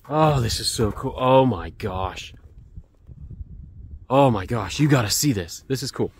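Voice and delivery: real gushing excitement; excited. Real, not acted. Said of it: "I am excited".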